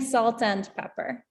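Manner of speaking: lightly put-on British accent, every word pronounced; badly faked British pronunciation; terrible British accent. Shown as a demonstration. Teacher names the phrase she said in a terrible British accent. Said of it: "in a terrible British accent".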